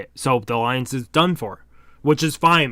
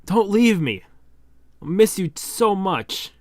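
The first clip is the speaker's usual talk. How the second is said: tearful plea; 5 semitones higher than usual. Acted. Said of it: "He's crying now".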